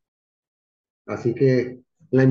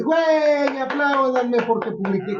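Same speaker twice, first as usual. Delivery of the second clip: mocking show-off; 11 semitones higher than usual. Mocking a show-off posting online.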